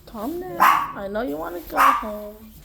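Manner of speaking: soothing the dog. Real, not acted. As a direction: hush her gently like a scared puppy.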